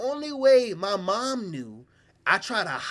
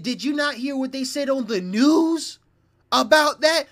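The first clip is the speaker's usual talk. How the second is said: high, louder mock scolding; scolding brother; 9 semitones higher, 8 dB louder than usual. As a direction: lecture him like a fed-up brother. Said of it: "He said".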